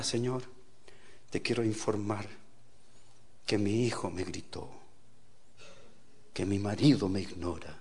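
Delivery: low, soft, halting report to God; mock prayer. Preacher mimicking a woman informing God, mock-solemn prayer. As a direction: pray solemnly, phrase by phrase.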